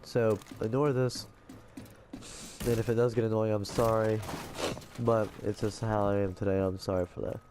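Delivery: blocked nose, breathing through the mouth; stuffy nose. Real, not acted. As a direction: talk like you have a bad cold. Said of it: "I am very stuffed right now".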